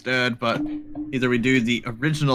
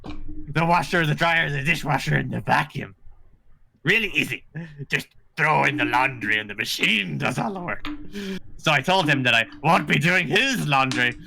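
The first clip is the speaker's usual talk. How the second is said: lightly voiced goblin reading. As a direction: read the post as a goblin. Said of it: "Do the goblin voice".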